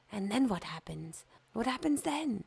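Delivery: desperate to know; eager fir tree. Acted.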